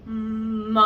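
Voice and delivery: big open ma. Shown as a demonstration. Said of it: "open it out into a nice big ah".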